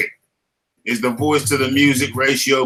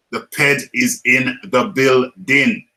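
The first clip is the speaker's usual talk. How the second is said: slow, drawn-out arena announcer call; announcer hype; 3 dB louder, slower than usual. Pretend. Streamer hyping up a viewer arriving in chat, slow announcer call. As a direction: announce him like a boxer entering.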